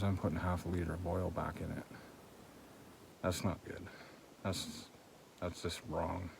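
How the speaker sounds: talking with a cold-numbed mouth; frozen mouth. Real, not acted. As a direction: stiff lips from the cold. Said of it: "I'm talking funny 'cause my mouth is frozen".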